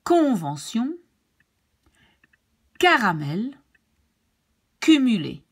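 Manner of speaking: "Convention", "Caramel", "Cumulé" opening on hard k. Shown as a demonstration. Teacher gives examples of hard C, firm k. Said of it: "it's pronounced like a K".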